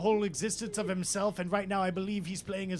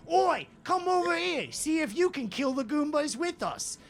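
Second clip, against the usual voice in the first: loud, high mock British rocker; hammed-up British call; a famous rock singer; 9 semitones higher, 6 dB louder than usual. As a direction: urge them over in a broad British accent. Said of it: "And John Lennon".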